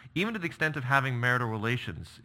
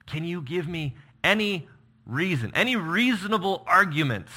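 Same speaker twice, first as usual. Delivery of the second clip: echoed plea; 8 semitones higher, 5 dB louder than usual. Acted. Echoing Jonathan's plea.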